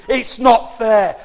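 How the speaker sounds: put-on whiny child. Mimicking selfish whining.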